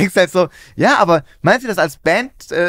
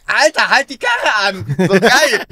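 mock excitement; 5 semitones higher, 3 dB louder, slower than usual. Acted excited listener in car.

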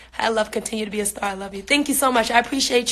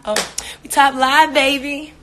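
louder, higher hype; excited; 3 semitones higher, 5 dB louder, slower than usual. Real, not acted. Bragging to viewers about the top live, excited and louder. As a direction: celebrate it loudly to the chat.

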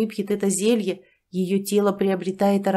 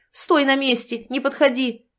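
shouted; 5 semitones higher than usual. Acted. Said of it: "закричал".

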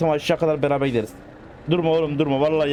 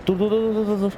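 urgent stop; 6 semitones higher than usual. Real, not acted. Car won't stop, urging.

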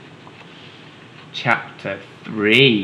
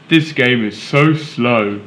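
put-on bored kid; 6 dB louder, slower than usual. Bored boy complaining about game.

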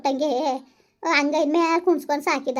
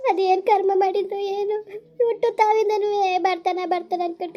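tearful lament; 2 semitones higher than usual. Acted. Widow tells neighbour of husband's death, weeping. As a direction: cry as you recount his sudden death. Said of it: "ಅಳು ಬೇಡ, ಸುಮ್ನಿರು ಅತ್ತಾಗೆ".

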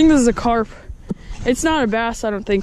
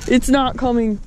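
fighting a fish. Real, not acted. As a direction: talk while reeling in a big fish.

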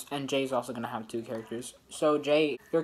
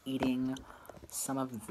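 ASMR voice; 5 dB quieter, faster than usual. Pretend. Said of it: "I'm doing A S M R right now".

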